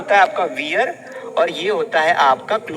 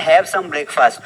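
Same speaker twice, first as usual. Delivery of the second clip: "Have" said lower with a falling tune; stress on have; 5 semitones lower, 3 dB louder, much slower than usual. Shown as a demonstration. Teacher stressing the correct verb, have. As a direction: lean on "Have" and let it fall. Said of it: "उसके लिए हम have लगाते हैं".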